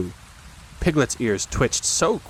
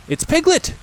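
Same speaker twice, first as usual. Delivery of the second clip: raised, eager call; eager cry; 6 dB louder than usual. A narrator's reading. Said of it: "cried Pooh eagerly".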